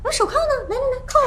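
high-pitched, provocative clamour; clamouring defiance. Acted. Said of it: "你嚷嚷".

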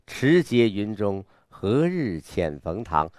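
内在含蓄. Shown as a demonstration. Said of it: "稍微内在一点儿".

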